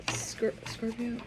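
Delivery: breathy whisper of the name; whispered call. Retold or imitated. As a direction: call the name in a hush, almost unheard. Someone quietly calling Scorpio.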